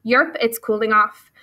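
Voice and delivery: croaking frog. Acted. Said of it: "croaked one frog to another".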